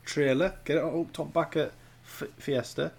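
broad Yorkshire voice; Yorkshire accent. Pretend. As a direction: put on a silly Yorkshire accent. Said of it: "you're doing that stupid Yorkshire accent again".

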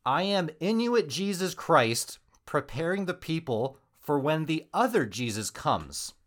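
loud, high, slow self-declared messiah; mock-prophetic announcement, projected; grand proclamation. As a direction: proclaim it to the whole tribe. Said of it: "he proclaimed himself Inuit Jesus".

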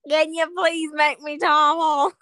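hammed-up accent drifting off British; wandering accent. Friend begging to become Tom Holland, wandering British accent. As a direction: beg in a fake, wandering accent. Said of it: "If I talk for too long in an accent".

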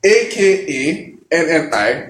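name each letter of A K A N N I clearly; spelled out letter by letter. Shown as a demonstration. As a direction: slowly spell A K A N N I, one letter at a time. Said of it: "Spell it out for them on the podcast".

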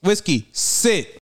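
high, deliberate pet command; dog command. Real, not acted. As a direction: call out a drawn-out command to your pet.

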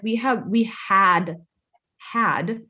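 slow, weighty stress on "had"; pointed self-correction. Retold or imitated. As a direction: correct "have" to "had", then repeat "had" alone after a pause. Quoting a correction of tense.

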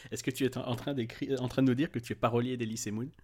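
teasing, with a laugh in it; laughing question. Real, not acted. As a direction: tease them while still laughing.

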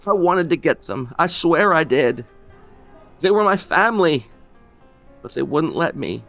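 put-on high, loud, pleading old man; anguished. Old man wringing his hands, pleading with the stranger. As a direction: plead with guilt in every word. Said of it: "wringing his hands".

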